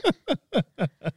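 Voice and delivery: a fancy-voiced laugh; laugh in posh voice. Real, not acted. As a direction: chuckle while still in the snooty voice.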